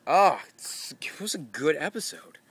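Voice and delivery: breathy hushed aside; whisper. Real, not acted. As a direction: whisper it like a secret boast. Whispered aside about episode.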